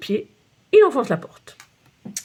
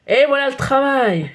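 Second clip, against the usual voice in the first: slower and louder exasperated outburst; exploding; 4 semitones higher, 4 dB louder than usual. Acted. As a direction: burst out in disgust. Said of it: "explose le photographe". (le photographe explose de colère)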